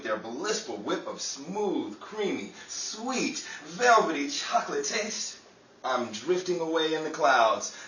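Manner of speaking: dreamy, selling chocolate commercial voice; old-time radio commercial, sweet and persuasive; radio ad read. Acted. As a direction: sell the chocolate like floating on air.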